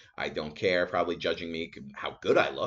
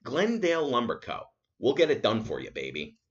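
mock ad slogan; 3 semitones higher than usual. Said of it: "That should be the official motto".

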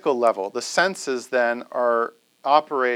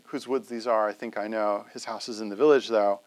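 reciting like Robert Frost; 6 semitones lower, 3 dB quieter than usual. Retold or imitated. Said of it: "a recording of Robert Frost reciting".

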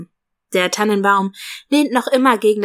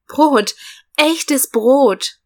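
excited; 5 semitones higher, 3 dB louder, much slower than usual. Acted. Excited at real bread.

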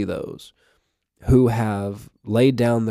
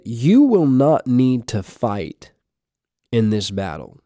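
slow emphatic scripture reading; slower than usual. Shown as a demonstration. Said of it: "I want to emphasize that to you".

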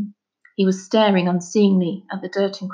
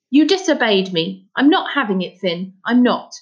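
louder, cross father laying down the law; mildly raised, indignant telling-off; scolding father; 2 semitones higher, 4 dB louder than usual. Acted. Father scolding his son who disobeyed him, cross.

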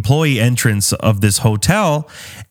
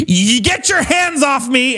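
mock-indignant, higher and slow; a touch of entitled outrage; 11 semitones higher than usual. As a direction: hands off, said high and slow. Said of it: "Just being like".

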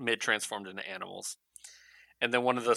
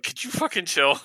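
louder, higher mock exasperation; raised-voice plea to cut it out; exasperated Batman; 8 semitones higher, 5 dB louder than usual. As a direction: tell a partner off, acted annoyance.

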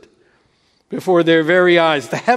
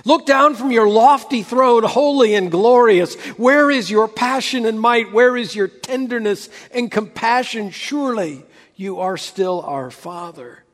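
crying out in prayer; 2 semitones higher than usual. Retold or imitated. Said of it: "he cried out".

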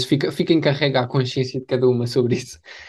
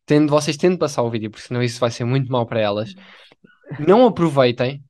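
mock public appeal.

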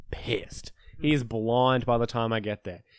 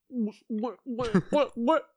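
higher and higher disbelieving whats; can't believe what he's seeing; rising disbelief; 9 semitones higher, much slower than usual. Retold or imitated. Friend shocked at the huge vodka swig, rising disbelief.

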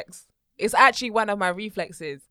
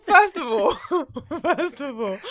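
laughing retort; 3 semitones higher, 3 dB louder, slower than usual. Retold or imitated. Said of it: "I said".

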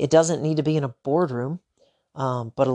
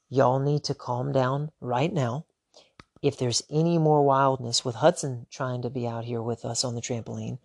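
softer, calm and firm demonstration; steady them down with quiet authority; calm firm dad; 3 dB quieter than usual. Shown as a demonstration. Dad calmly addressing family on the trampoline, softer and firm. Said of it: "I should have stopped all activity".

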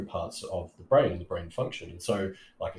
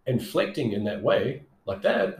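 upward inflection demo; 3 semitones higher than usual. Shown as a demonstration. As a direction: demonstrate the rising, eager tone. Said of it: "I'm kinda doing it now".

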